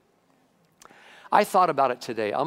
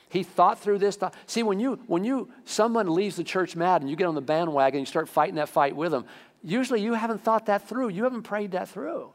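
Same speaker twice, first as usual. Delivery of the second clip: preaching emphasis; 6 semitones higher than usual. Real, not acted. Preacher pressing the point.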